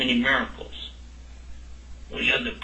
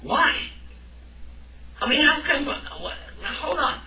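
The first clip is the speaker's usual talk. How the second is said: much higher, incredulous "why" of a doubter; protesting student; 3 semitones higher than usual. Pretend. Teacher playing a questioning student, higher incredulous protest. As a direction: object like a puzzled student, half laughing.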